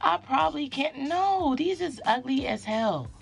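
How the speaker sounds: animated, emphatic venting; mad, exasperated. Real, not acted. Vlogger lamenting her once-pretty twists, exasperated. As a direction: complain to the viewers with punched words. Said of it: "I'm so mad".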